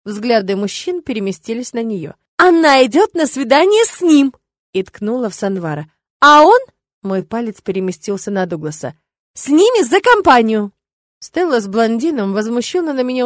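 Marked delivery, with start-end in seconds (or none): 2.4-4.3 high, loud accusing blurt. Acted. Witch pinning the date on her friend, high loud blurt. Pointing fingers in panic. 6.2-6.6 high, loud quick question. Acted. Witch pointing her finger at Douglas, loud high question. 9.3-10.7 high, loud excited blurt. Acted. Witch explaining the third boy's role, high loud blurt. Pointing in panic.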